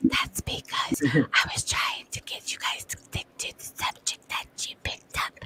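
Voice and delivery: soft, hushed whisper throughout. Explaining to the others why they took over the talk; whispering. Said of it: "Why are you whispering?".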